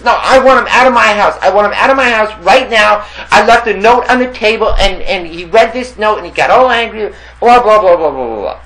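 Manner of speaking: high, loud panicked complaining; frantic neighbor. Retold or imitated. Beaten Russian neighbor showing his lip, high and frantic. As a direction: whine it high and loud like he's hurt.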